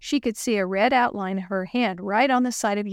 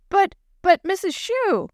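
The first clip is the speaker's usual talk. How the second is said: stammering, pitched up in shock; 10 semitones higher, 4 dB louder than usual. Acted. Girl refused by teacher, shocked and higher. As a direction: blurt it out, stunned. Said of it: "Maria was shocked".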